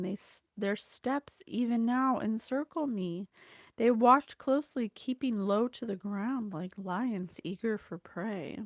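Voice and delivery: earnest, declaiming prayer; prayer reading. Acted. Reading the psalm aloud to her viewers, earnest prayer. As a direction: read it as a heartfelt plea.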